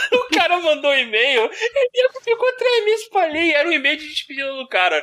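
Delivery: tells it through laughter; can't stop laughing while telling. Real, not acted. Laughing while telling the e-mail story.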